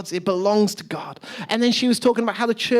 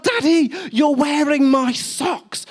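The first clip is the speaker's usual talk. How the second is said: imitating a thrilled little girl, higher and louder; ecstatic child; 6 semitones higher, 3 dB louder, slower than usual. Daughter thrilled her dad wears the chili socks, excited mock squeal. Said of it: "she's ecstatic".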